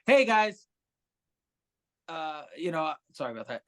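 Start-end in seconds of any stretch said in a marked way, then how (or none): 0.0-0.7 higher, brighter server hello, a bit louder; mock perky waiter; chipper waiter greeting. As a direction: greet the table like an eager waiter. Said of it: "I was walking up going".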